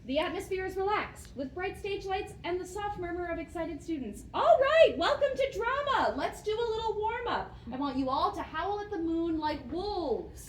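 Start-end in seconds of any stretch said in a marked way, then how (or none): 4.3-10.5 drama teacher. Acted. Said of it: "A teacher stands on stage".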